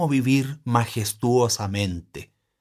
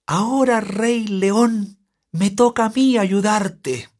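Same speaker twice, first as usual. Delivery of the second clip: voz de ratoncito; 9 semitones higher, 4 dB louder than usual. Acted. Ratón habla al león atrapado.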